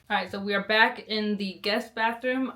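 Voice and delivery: talking with whitening trays in; slight lisp from the strips. Real, not acted. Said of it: "it's giving me a lisp".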